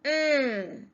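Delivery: "mm" as a long hummed closed-lip m; letter sound. Shown as a demonstration. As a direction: hum "mm" with lips closed. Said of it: "We sound it as".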